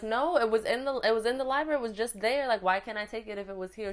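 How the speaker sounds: high, loud, pleading objection; upset protest. Retold or imitated. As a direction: argue back like an upset kid. Retold protest to librarian.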